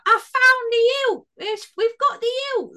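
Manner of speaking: high, strained monster shout; gleeful orc yelling about the hilt. Retold or imitated. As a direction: bark it out like a triumphant orc. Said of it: "I just did that accent".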